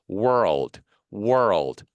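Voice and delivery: "world" slow, R flowing into L; joined R and L. Shown as a demonstration. Teacher showing a hard word, R-to-L glide in "world". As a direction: draw out both R and L inside "world". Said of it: "알, 엘 발음".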